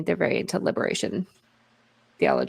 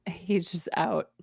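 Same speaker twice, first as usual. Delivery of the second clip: whisper; 7 dB quieter, slower than usual. Real, not acted. Joking aside after abrupt sign-off.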